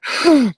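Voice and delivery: sharp, high startled intake of breath; acted gasp. Woman in the retold film suddenly gasps, mock shocked.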